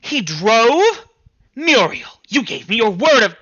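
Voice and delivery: shrieking high, loud alarm; mother horrified that the husband drove. Acted. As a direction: shoot up in panicked disbelief.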